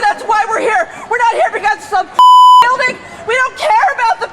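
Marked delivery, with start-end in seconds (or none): 0.1-1.8 impassioned protest speech. Real, not acted. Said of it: "It was a stirring monologue".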